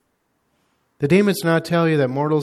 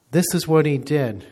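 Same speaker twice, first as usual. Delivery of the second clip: retold scream; 6 dB louder than usual. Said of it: "he screamed at the top of his lungs".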